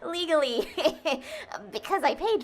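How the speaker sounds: laughing through a flustered cover-up; nervous laugh. Acted. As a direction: giggle while backpedalling. Caught admitting piracy, flustered.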